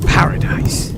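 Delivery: whispered mocking echo; scornful whisper. Tavern keeper scoffs at the pirate's dream, whispered. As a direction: breathe it with contempt.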